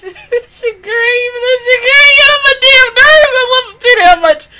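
high, loud fangirl gush; gush, almost squealing; excited gushing. Real, not acted. Fan gushing about her favorite character, excited and loud.

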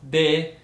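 "de" on a high, level tone; first tone. Shown as a demonstration. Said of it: "which is the first tone".

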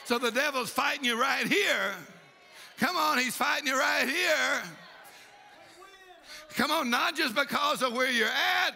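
insistent, driving revival preacher; fired-up preaching. Real, not acted. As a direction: urge the congregation on with conviction. Preaches to the congregation.

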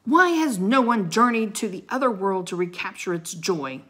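loud, accusing question; booming. A narrator's reading. Knight challenges the king and his court, booming. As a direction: boom out the challenge. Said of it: "the Christmas knight boomed".

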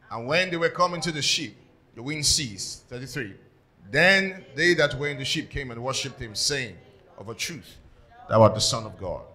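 measured Bible reading in phrases; scripture reading. Acted. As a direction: read scripture out to the congregation.

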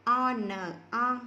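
teacher spells "O, N" and joins them into "on"; spelling out a rhyme. Shown as a demonstration. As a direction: sound out "O", "N", then glide them together as "on". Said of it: "đó là vần on".

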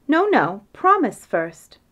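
eager plea. Acted. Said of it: "he said".

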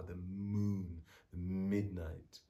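"moon" and "midnight" with a lingering m; initial m stressed. Shown as a demonstration. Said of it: "so I'm bringing that out".

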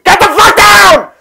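very high, drawn-out imitation scream; mock enraged scream. Imitating angry guy at his cat, loud scream. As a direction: explode into a screaming impression of a ranting man. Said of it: "he's just screaming at his cat".

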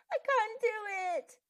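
put-on crying boy who gives up; wailing. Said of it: "he wailed".

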